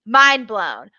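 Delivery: breathy whisper, no voice at all; whispered aside. Real, not acted. Host whispering her verdict on Cody's reaction. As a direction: lean in and whisper it like a secret.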